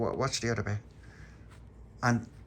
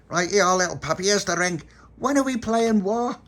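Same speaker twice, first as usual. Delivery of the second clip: eager; 11 semitones higher, 6 dB louder than usual. Acted. Tony eager to play war.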